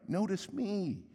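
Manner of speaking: high, drawn-out mock plea; mocking singsong self-promotion; attention-seeking leader. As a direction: parody someone begging for the spotlight. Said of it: "leaders whose constant message is kinda like".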